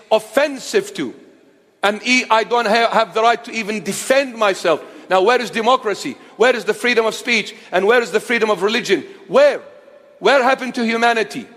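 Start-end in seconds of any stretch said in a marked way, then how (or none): 5.1-11.5 rapid, indignant where-questions; outraged appeal for freedom; demanding questions. Real, not acted. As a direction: fire each question at them.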